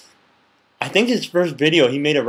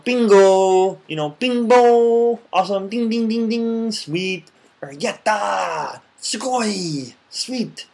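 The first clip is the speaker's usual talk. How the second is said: high, bright exclamations; cheerful praise calls; 5 semitones higher, much slower than usual. Shown as a demonstration. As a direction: cheer each right answer. Demoing praise words.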